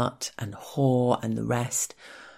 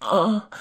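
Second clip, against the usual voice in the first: stifled cry; 5 semitones higher than usual. A narrator's reading. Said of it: "I try to cry out anyway".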